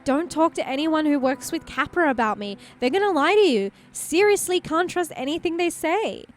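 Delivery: put-on earnest, worried young woman; Lena voice. Voices Lena in game dialogue.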